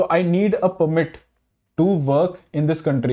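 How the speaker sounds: permit read slowly as the noun, PER stressed; slow example, lean on PER in permit. Shown as a demonstration. Teacher reading the noun example, permit stressed on PER. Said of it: "हम पीईआर पे ज्यादा stress डालेंगे".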